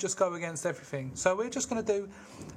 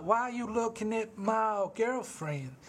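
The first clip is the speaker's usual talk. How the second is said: angry Curly; 7 semitones higher than usual. Retold or imitated. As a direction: snap at him like a jealous little tough. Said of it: "He's like".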